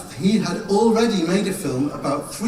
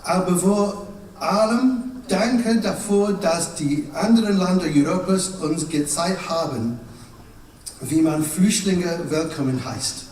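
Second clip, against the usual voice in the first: pretend German. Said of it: "I'm going to pretend to speak German".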